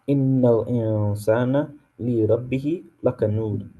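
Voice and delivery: fast, melodic Quranic recitation; chanted Arabic verse recitation. Shown as a demonstration. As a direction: recite the verse in tajweed style. Reciting ayah six in Arabic.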